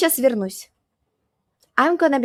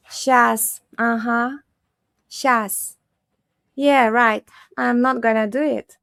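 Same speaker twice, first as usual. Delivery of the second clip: sarcastic. Shown as a demonstration. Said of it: "in a sarcastic way".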